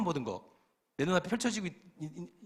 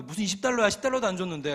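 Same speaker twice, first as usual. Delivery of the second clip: loud, higher-pitched indignant retort; acted annoyance, voice raised; worked-up protest; 5 semitones higher, 5 dB louder than usual. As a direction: object hotly to being overcharged. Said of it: "나도 이제 열받는 거".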